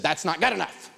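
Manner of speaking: a hint of a curt, scripted collector; debt collector. Collector refusing a debtor's promise to pay, lightly mimicked curtness. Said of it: "And she said".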